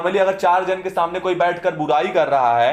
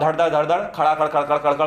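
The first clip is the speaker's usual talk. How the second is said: mock mantra rattle; faster than usual. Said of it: "पढ़ के सुना दोगे".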